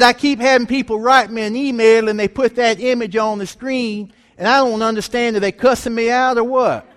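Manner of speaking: high, loud comic complaint of a baffled dad; exasperated dad. Retold or imitated. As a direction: act out Dad's indignant confusion, voice pushed up. Dad complains about puzzling emails.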